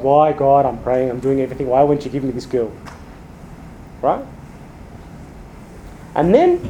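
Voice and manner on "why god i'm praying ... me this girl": low mock grumble of complaint; mildly acted self-pitying prayer; grumbling at God. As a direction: plead like a hard-done-by believer. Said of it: "I grumble against God".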